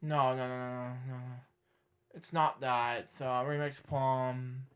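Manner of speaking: low, very soft murmur; talking to oneself. Real, not acted. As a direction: murmur absently while searching. Talking to self while searching.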